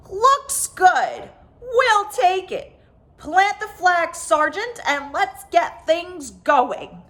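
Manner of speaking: a pleased leader giving orders; alien chief. A narrator's reading. Alien chief voiced after he said.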